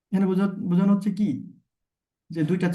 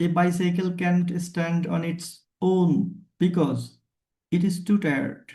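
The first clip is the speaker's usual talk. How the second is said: slow example sentence; much slower than usual. Shown as a demonstration. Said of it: "এখানে এই যে too tired বলেছি".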